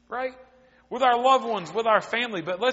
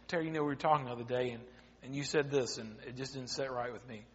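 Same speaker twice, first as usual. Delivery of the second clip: gentle confrontation; 7 semitones lower, 10 dB quieter, faster than usual. Retold or imitated. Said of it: "if you go and you say".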